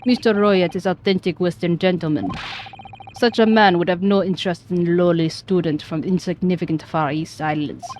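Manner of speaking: put-on haughty Russian accent; scornful Russian sailor. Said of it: "I'm so bad at this Russian accent".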